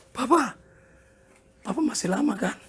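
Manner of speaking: mock-tearful question to a parent; imitated tearful child. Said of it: "Tiba-tiba dia nangis". (tiruan anak memelas)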